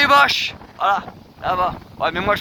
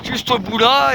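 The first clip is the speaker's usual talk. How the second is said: shouting over wind; 4 semitones higher than usual. Real, not acted. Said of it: "je crie peut-être un petit peu fort".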